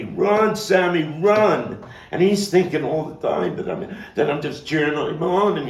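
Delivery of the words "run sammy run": very loud, high, desperate scream, run slow and stretched; yelling warning. Acted. Friend yelling at Sammy as the car comes, desperate scream. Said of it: "I started yelling at Sammy".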